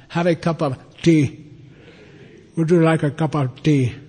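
"tea" with the tongue curled back, retroflex t. Shown as a demonstration. Teacher showing students the retroflex t, curled tongue. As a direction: say "tea" curling the tongue tip back to the palate. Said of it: "turn your tongue back consciously".

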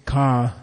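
low 'Ka' vibrating in the voice box. Shown as a demonstration. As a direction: let 'Ka' buzz low in the throat. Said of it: "It's vibrating here".

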